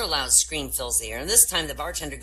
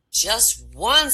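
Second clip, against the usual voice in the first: put-on wide-eyed boy; 8 semitones higher, 8 dB louder than usual. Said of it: "says the wide-eyed lad".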